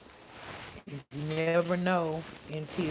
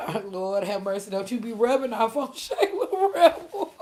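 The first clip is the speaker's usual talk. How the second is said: imitating Miss Lafita; 3 semitones higher, 5 dB louder than usual. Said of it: "Miss Lafita came in there like".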